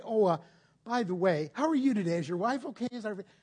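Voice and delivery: overly polite small talk, lightly hammed-up; mock polite. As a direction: chat pleasantly as if nothing's wrong. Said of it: "very politely tap on the front door".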